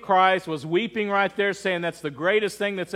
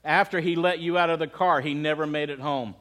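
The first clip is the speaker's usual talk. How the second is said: subdued, lowered voice for a weeping widow; understated retold grief; 3 semitones lower than usual. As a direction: retell her painful news gently. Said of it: "struggling with her words".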